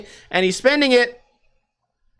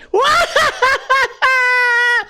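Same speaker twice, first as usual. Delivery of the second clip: very high-pitched staccato cackle; mock insane laugh; 4 dB louder than usual. Annoying stranger one table over, insanely laughing. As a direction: imitate an obnoxious diner's crazed laughing. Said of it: "insanely laughing".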